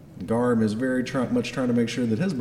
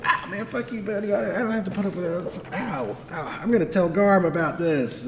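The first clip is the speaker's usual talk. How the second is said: whining goblin; 9 semitones higher than usual. Acted. Goblin complaining after being backhanded, high whine. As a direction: grumble like a hurt little goblin. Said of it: "Goblin guy's like".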